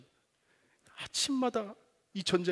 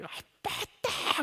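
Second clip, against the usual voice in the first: much higher, breathy whispered squeal; gleeful cry; much slower than usual. Retold or imitated. Son running to dad at the door, hushed joyful squeal. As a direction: squeal with joy as dad comes home. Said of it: "너무 기뻐하는 거예요".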